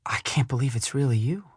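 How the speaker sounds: amazed to see a long-lost friend; excited disbelief. Acted. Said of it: "apparently excited to see me".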